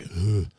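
exhausted "ugh"; mock groan of a spent man; weary groan. Spent king leaving the dinner, weary groan.

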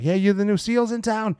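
high-pitched mock call in Boston accent. Guy coming out hails new SEALs, imitated Boston accent. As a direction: imitate a hollered Boston greeting without real volume. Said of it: "you hear him yelling that accent".

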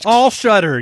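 light mock shutter sound; camera shutter voice. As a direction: say it like a camera snapping. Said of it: "Yeah, classic".

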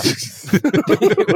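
high-pitched burst of laughter; high giggling laugh. Real, not acted. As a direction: crack up mid-bit. Cracking up over accent bit.

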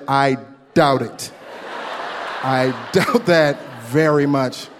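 slow, dry, skeptical reply; slow skeptical retort to the bank guy; dry doubt. Retold or imitated. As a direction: drag it out, unconvinced.

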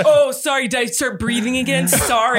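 mock-offended, punched sorries; mad sarcastic apology, imitated. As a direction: play the huffy sleeper, hitting each sorry. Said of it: "He was so mad at me".

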